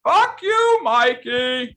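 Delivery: high, loud angry yell; angry shout. Acted. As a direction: snap back in a fury. Mock outrage at insult.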